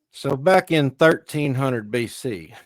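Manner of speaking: slow, drawn-out country bumpkin history lecture; mock bumpkin historian, drawling slowly; country bumpkin accent. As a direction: put on a hick accent, stretching the words. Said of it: "you don't wanna hear my, you know, country bumpkin accent".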